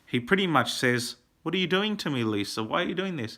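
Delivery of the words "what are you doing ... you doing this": higher, softer mock of his strange speech; Tommy Wiseau. Reviewer voices Johnny confronting Lisa, imitating the strange voice. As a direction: imitate an odd-voiced actor pleading, quietly. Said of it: "but the way he speaks".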